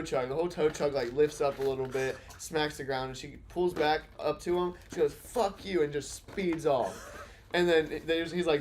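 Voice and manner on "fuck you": higher-pitched imitation of an angry parting shot; mock defiant cursing. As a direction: toss it off as a retold angry outburst. Woman cursing at tow driver, retold.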